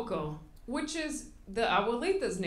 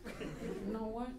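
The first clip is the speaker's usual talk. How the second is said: mock sulk; 4 semitones lower, 10 dB quieter, slower than usual. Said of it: "I'm pissed".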